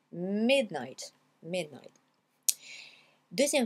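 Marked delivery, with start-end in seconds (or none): 0.1-1.9 MIDNIGHT with weight on MID, falling away; stress on MID. Shown as a demonstration. Teacher shows learners the tonic accent, stress on MID. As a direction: hit MID, let night drop. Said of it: "l'accent tonique, c'est mid".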